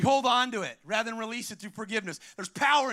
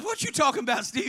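lightly voiced puzzled mother; a hint of a mother challenging her boy; questioning mother; 2 semitones higher, faster than usual. Preacher as Stevie's mother answering him, lightly voiced challenge.

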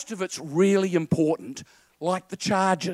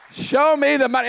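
loud, higher shouted catchphrase; Cuba Gooding impression; 6 semitones higher, 5 dB louder than usual. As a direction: belt it out like the movie star. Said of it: "it's Cuba Gooding".

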